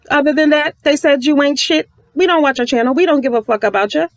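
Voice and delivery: mock clique voice. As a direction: sneer it as the snobby clique. Voicing the clique's dismissal.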